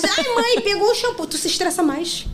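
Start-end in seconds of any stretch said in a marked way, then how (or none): 0.0-1.3 put-on high, loud whining child; whiny kid. Mom imitating her kids tattling in the bath.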